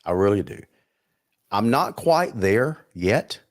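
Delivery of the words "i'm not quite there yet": "yet" set apart at the end, slowly; slow down and land on "yet" as a caveat; stress on yet. Real, not acted. Co-host tempering his partner's confidence, stress on "yet". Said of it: "I emphasize the word yet".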